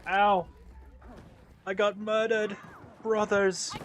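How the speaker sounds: high, loud pained yell; man down shout. Real, not acted. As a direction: yell out after getting shot. Shot down in game.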